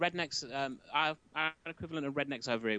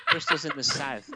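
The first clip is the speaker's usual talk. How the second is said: loud Bristol accent through laughter; 2 semitones higher, 7 dB louder than usual. Shown as a demonstration. Answering where Bristol is, laughing Bristol accent. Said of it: "asking me to do the Bristol voice again".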